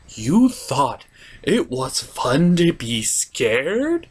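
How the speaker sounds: drawn-out disbelieving question; incredulous, slowed-down question. Real, not acted. To Pinkie, scolding her excuse, in slow disbelief. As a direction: spell out the absurdity slowly in disbelief.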